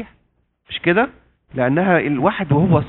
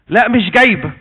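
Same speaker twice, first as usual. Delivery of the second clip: a touch louder and higher, half-acted rudeness; mock snap at mother; 4 semitones higher, 4 dB louder than usual. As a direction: snap back at mom, only half in earnest. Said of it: "شخطة في أمها".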